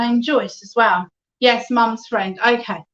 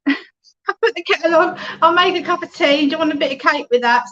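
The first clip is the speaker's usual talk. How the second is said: lightly voiced chatty grandmother; a cosy nan offering tea, higher; homely nan voice; 4 semitones higher than usual. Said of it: "she said".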